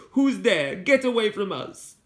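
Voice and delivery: high frightened yell; startled shout. A narrator's reading. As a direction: shout into the dark at a stranger. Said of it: "A voice came suddenly from the dark".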